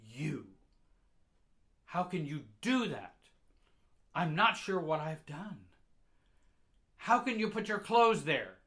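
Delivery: high, very loud tirade building in force; furious scolding mother. Acted. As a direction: tear into the child at a shout. Enraged mother scolding her child.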